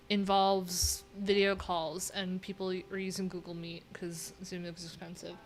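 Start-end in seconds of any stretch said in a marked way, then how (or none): 2.1-5.4 whispered aside. Real, not acted. Aside about Zoom costs.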